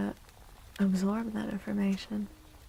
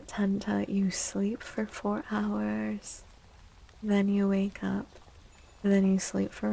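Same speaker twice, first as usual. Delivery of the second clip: ASMR whisper. Acted. Streamer whispering back to a chatter about sleep.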